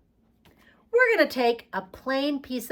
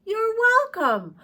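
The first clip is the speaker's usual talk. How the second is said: modelled reply; 11 semitones higher, 4 dB louder, slower than usual. Shown as a demonstration. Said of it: "What could your friend say to you?".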